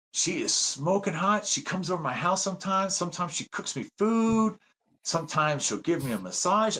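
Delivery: a hint of a sly radio host bragging; teasing radio host. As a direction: tease the listeners with a juicy secret. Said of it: "starts off by going".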